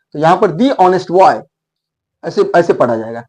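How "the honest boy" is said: put-on the honest boy, "the" as thee and honest without h, slowly; slow "thee onest boy". Shown as a demonstration. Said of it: "उच्चारण में ये silent है". (धीरे, "दी ऑनेस्ट बॉय")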